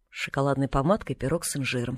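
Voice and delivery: low, quiet disdain; contemptuous. A narrator's reading. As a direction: dismiss it with understated scorn. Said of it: "презрительно фыркнула тётя Поля". (сдержанно презрительно)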